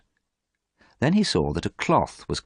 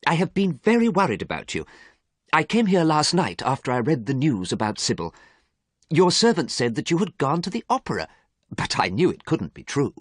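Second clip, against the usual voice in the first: higher worried friend voice; anxious painter pleading a little; Basil, worried; 10 semitones higher than usual. Acted. Basil tells Dorian he was worried about him, higher voice.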